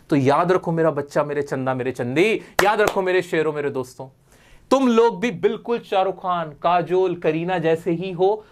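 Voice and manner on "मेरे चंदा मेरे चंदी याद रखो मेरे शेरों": normal talking voice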